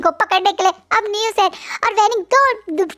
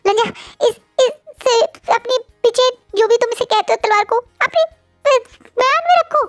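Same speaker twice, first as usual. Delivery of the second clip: higher, gentle pleading to put the sword away; lovingly coaxing; 8 semitones higher than usual. Acted. Wing coaxing drunk Wang Ji to sheath his sword, gently pleading. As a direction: soothe him like a child about to cause trouble. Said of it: "बहुत प्यार से कहता है".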